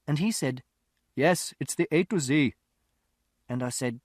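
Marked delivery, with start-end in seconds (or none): 1.1-2.5 impatient London shopkeeper; gruff shopkeeper. A narrator's reading. Shopkeeper voiced in story.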